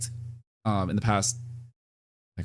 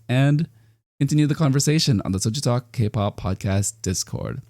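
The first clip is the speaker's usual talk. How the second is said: podcast sign-off; 3 semitones higher than usual. Real, not acted.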